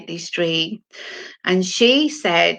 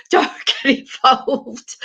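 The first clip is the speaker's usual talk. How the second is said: higher, hammed-up husband warning; mock husband; 5 semitones higher than usual. Laughing, she mimics her husband's warning in a higher voice. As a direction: mimic him, a bit cartoonish. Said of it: "he was saying".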